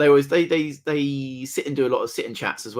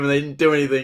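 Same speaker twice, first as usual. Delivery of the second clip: normal talking voice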